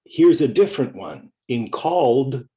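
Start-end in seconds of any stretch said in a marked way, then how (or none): 1.7-2.5 "called" ending in a d sound; "called" said like "calld". Shown as a demonstration. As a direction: say "called" as one syllable, final d. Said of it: "the E D sounds like d".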